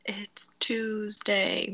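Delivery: slow, whispery echo in natural pitch; drawn-out mock-spooky whisper. Co-host echoes the whispered voice.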